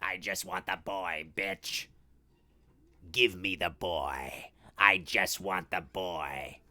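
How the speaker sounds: low, slow, quiet killer-doll growl; deep, drawn-out threat; menacing Chucky. Acted. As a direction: demand it softly, with menace. Performs Chucky demanding the boy, quietly.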